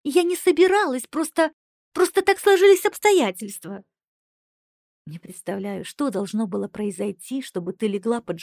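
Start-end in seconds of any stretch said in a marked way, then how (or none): 0.0-3.8 high, loud desperate cry. Acted. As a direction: plead desperately, near crying. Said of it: "отчаянно произнесла Кристиана".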